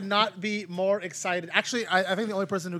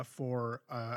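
usual speaking voice

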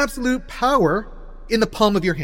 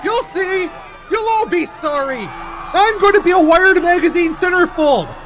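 higher, louder manic ranting; too much caffeine; 9 semitones higher, 6 dB louder than usual. Acted. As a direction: rant like a wired, unhinged genius. Unhinged rant while removed.

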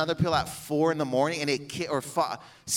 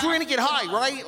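old school guy impression; 12 semitones higher than usual. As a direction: imitate a buddy swaggering in, pitched way up. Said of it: "he was this guy".

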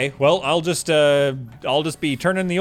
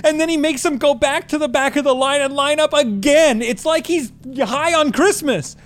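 panicked; 6 semitones higher than usual. Acted. Panicked plea for help.

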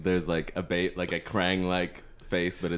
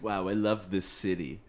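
Batman impression; 4 dB quieter than usual. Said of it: "That was a good impression".

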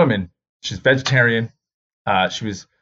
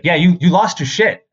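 mom's teasing raised reply; 7 semitones higher, 5 dB louder than usual. Retold or imitated. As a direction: tease him about the meltdown. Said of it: "she's like".

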